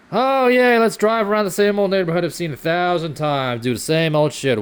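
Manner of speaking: sarcastic eager; sarcastic cheer. Real, not acted. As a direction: fake enthusiasm dripping with sarcasm. Sarcastic mock enthusiasm about plans.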